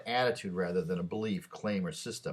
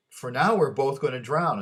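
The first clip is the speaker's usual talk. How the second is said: louder, higher cry of despair; doomed frog wailing, louder; anguished frog; 6 semitones higher, 9 dB louder than usual. Retold or imitated. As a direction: cry out that you'll both drown. Frog crying out.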